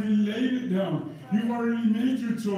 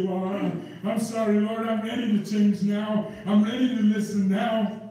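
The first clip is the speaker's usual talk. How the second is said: mild pleading; 3 dB louder than usual. Retold or imitated. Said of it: "go back and say".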